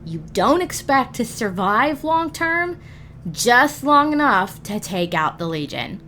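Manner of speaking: usual speaking voice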